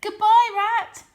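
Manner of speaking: loud, slow taunting farewell; calling out. A narrator's reading. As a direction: call it back as you vanish. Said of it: "they called out".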